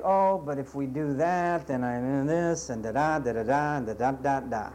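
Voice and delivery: low, mumbled mock excuses; lightly voiced mock excuse-maker. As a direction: brush it off like a whiny congregant. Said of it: "And I know you think".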